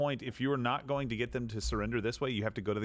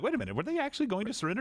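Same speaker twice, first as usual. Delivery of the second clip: mock doubt; 9 semitones higher, faster than usual. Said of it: "I was like".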